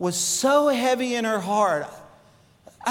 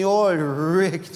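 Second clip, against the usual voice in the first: Cajun mama; 3 semitones lower than usual. Retold or imitated. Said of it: "real thick Cajun accent".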